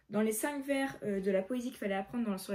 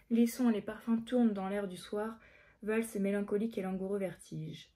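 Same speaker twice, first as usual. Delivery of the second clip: measured verse read-aloud; careful recitation of verse; poem reading. Acted.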